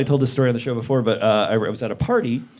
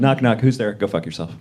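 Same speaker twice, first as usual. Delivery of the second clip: mock knock-knock joke; 4 semitones lower than usual. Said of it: "What's that?".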